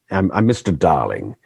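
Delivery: lightly put-on English accent. Shown as a demonstration. Actor naming his film role, generic English accent. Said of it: "That's just my generic English, English accent".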